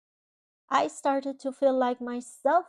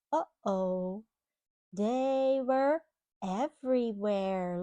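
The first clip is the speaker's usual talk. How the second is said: put-on storybook reading to a child; reading to children; slower than usual. Parent reading a storybook to a child, gently. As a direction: read it like a bedtime picture book. Reading picture book aloud.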